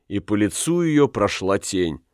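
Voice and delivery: ordinary delivery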